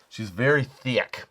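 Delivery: slow, leaning on "thick"; drawn-out THICK. Retold or imitated. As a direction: stretch out "thick" like kid slang. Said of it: "as my youngest says".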